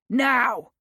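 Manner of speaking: sharp high shout; shouted order. A narrator's reading. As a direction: shout the single word like a gunshot. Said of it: "Ludlow barked".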